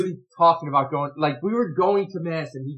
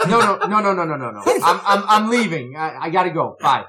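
rushed protests on the phone, getting louder; mounting exasperation; 5 dB louder than usual. Retold or imitated. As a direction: try urgently to cut off a caller. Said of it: "this is how it descends".

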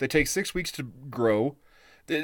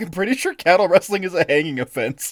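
excited aside; 4 semitones higher, 5 dB louder than usual. Retold or imitated. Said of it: "I was like".

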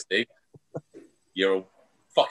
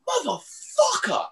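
a stretched, high startled yell of pain; sudden loud yell; slower than usual. Retold or imitated. Postman bitten through a letterbox, a high stretched yell. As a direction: bellow it as the dog bites. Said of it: "but really loud".

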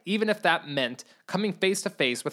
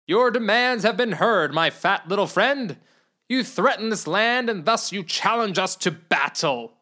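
proud booming threat; shouted; 4 semitones higher than usual. Acted. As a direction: challenge him to battle.

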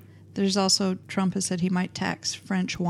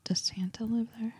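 hushed curious whisper; 3 semitones higher, 9 dB quieter than usual. Acted. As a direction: ask it in a whisper. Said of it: "Why are you whispering?".

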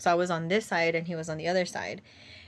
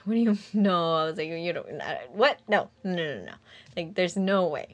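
retold stunned denial; mildly acted incredulous protest; disbelief. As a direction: stumble over it, refusing to believe. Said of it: "you couldn't believe it".

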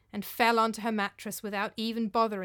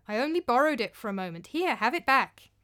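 insistent; 2 semitones higher, 4 dB louder than usual. Acted. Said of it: "insisted Thorgrima".

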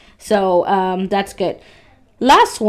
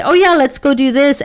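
impulsive eagerness; 5 semitones higher, 4 dB louder than usual. Acted. Acting out getting distracted, jumping up.

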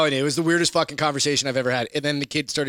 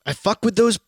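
trying out the phrase; 6 semitones higher, 3 dB louder, slower than usual. Shown as a demonstration. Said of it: "That's a thing?".

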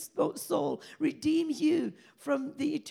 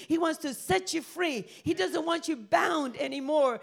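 raised, driving preacher's voice; fervent preaching; 2 semitones higher, 3 dB louder than usual. Acted. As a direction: preach and pray with full conviction. Preaches and prays to congregation.

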